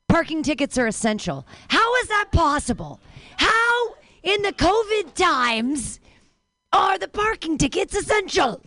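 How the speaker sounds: Cosby impression.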